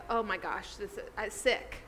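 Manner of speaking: a touch of stomach-sick shock; understated, sinking "oh my gosh"; mildly sick with dread. Retold or imitated. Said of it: "feeling just so sick to his stomach".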